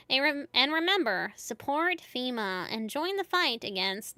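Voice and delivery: lightly voiced TV newscaster; news reporter voice. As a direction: read it like an evening news anchor. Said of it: "I should have done the news reporter voice".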